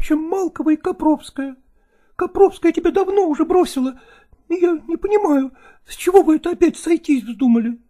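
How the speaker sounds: tearful actress pleading. A narrator's reading. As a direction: coax and beg, half jealous.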